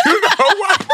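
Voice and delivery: high loud shout, laughing; exasperated shout. Real, not acted. Seeing the Uber leave, laughing shout. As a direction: yell it out in frustration.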